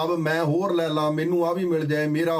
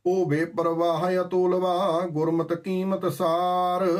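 slow, measured reciting of the verse; scripture recitation; 2 semitones higher, slower than usual. Acted. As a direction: intone each word of the hymn deliberately. (ਹੌਲੀ ਹੌਲੀ ਗੁਰਬਾਣੀ ਦਾ ਪਾਠ)

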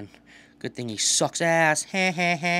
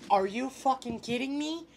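incredulous outburst; 10 semitones higher than usual. Real, not acted. Outraged at a play.

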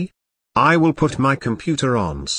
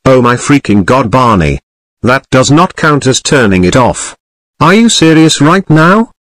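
much louder, exasperated shouting; furious yelling; 11 dB louder than usual. Real, not acted. User screaming at Barney over the rules. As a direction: blow up in outrage.

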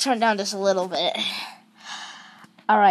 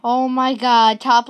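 startled gasp; 2 semitones higher, 6 dB louder than usual. Real, not acted. Jump scare in horror game.

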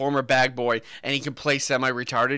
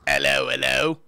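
mock cockney hello. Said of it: "that's the one".

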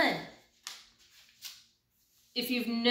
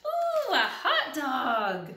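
delighted pigeon; 3 semitones higher, 3 dB louder, slower than usual. Acted. Pigeon spots the hot dog.

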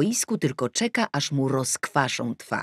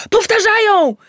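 very high, loud shout; 11 dB louder than usual. Acted. Daughter shouting about the replay, loud shout. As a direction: yell out the replay. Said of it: "krzyknęła Tosia".

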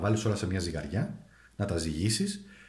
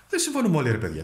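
emphatic; 4 semitones higher, 4 dB louder, faster than usual. Real, not acted. Emphatic point to viewers.

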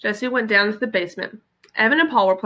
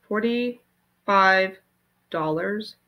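stunned disbelief; much slower than usual. Acted. Jessie stunned.

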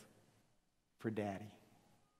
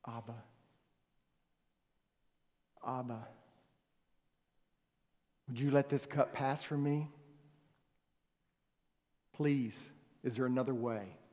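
pleading cry. Retold or imitated. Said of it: "he cries out".

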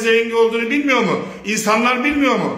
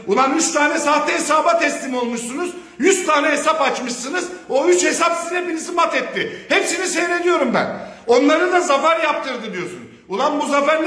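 raised, furious yelling at rivals; real angry outburst; angry shouting; 4 semitones higher than usual. Real, not acted. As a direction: shout it out, pitch climbing higher. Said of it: "biraz sinirlendim".

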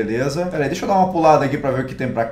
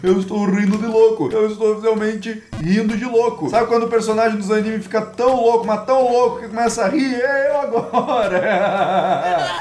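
high, maniacal villain laughter; mustache twirling villain; 6 semitones higher than usual. Pretend. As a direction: cackle like a crazed anime villain. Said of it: "Risada diabólica na sua forma mais pura".

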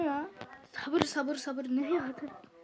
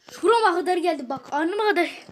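fed-up outburst; 5 dB louder than usual. Real, not acted. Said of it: "çok sinirlendim ya".

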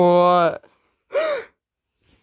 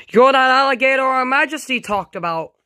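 alarmed recognition; 7 semitones higher, faster than usual. Pretend. Victim recognises the villain.

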